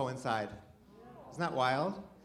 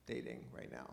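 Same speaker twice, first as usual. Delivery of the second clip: very quiet, near-whispered admission; hushed confession; 17 dB quieter than usual. Pretend. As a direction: let it slip out low and small. Sheepish confession to the audience.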